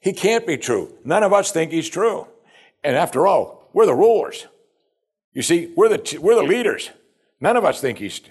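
high-pitched, self-important protest; religious pride. Acted. Pharisees as rulers rejecting Jesus, proud indignation. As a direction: pull rank as one of the rulers. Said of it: "shows the religious pride of these men".

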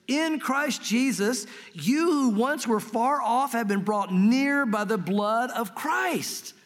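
slow, measured Bible reading; scripture reading. Acted. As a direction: read each phrase slowly and deliberately. Reading Ephesians aloud.

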